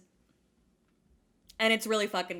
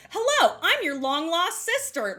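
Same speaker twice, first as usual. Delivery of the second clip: lightly hammed-up film greeting, higher pitch; Barbie movie heroine; 4 semitones higher, 3 dB louder than usual. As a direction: announce yourself like a long-lost movie sister. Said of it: "This is from a Barbie".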